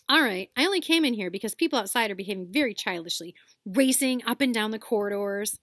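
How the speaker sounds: huffy and superior; sniffy. Acted. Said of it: "said Hermione in a sniffy voice".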